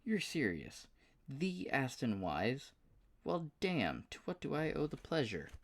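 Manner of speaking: high, excited southern drawl; a delighted good-old-boy southern twang. Acted. Paul thrilled to hear from Aston, southern drawl. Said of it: "with a surprisingly thick southern drawl".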